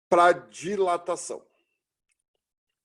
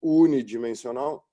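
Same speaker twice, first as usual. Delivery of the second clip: dictating; 2 semitones lower, 3 dB louder than usual. Shown as a demonstration. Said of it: "Escreve ali".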